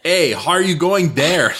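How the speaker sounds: laughing Quebecer English with added h; Quebec French accent. Shown as a demonstration. Teaching America to mock Quebecers, laughing Quebec accent. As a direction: drop th and add h before a, laughing. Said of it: "the only time they pronounce the H".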